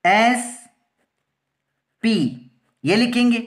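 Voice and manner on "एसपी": एसपी split into एस, long pause, पी; slow dictation of S, then P; spelled out. Shown as a demonstration. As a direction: say each letter of एसपी separately. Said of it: "तो एसपी में क्या लिखेंगे".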